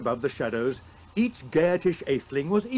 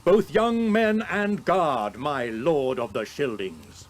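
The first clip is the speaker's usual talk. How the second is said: raised, high proclaiming king; King Hrothgar; 5 semitones higher, 4 dB louder than usual. Acted. Old king Hrothgar promises Beowulf safe sleep, raised and proud.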